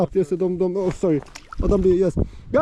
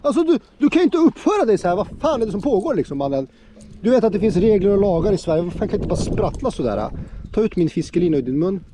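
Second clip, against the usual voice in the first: mock scolding. Scolding the hooked pike.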